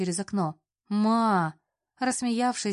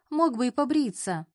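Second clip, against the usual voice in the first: displeased grumble; 5 semitones higher than usual. Acted. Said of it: "загудела недовольно".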